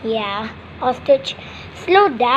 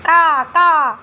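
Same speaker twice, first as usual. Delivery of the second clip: drawn-out crow caws; crow cawing. Pretend. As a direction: imitate a crow's call. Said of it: "Sounds like a crow".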